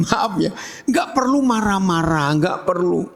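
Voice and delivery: normal talking voice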